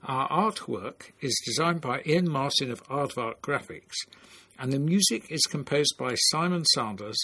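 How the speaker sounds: measured presenter reading the credits; closing credits read. Acted. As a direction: read out the podcast credits like an announcer.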